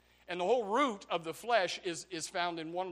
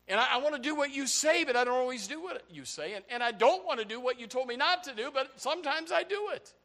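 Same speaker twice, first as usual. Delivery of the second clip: higher-pitched, exasperated confession to God; frustrated; 6 semitones higher than usual. Acted. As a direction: plead as someone torn against himself. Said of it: "he's very frustrated with it".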